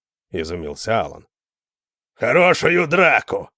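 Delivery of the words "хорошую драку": high, loud, slow roar. A narrator's reading. Hara challenges Alan to a fight, roaring. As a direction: roar it out slowly like a brute. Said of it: "проревел Хара".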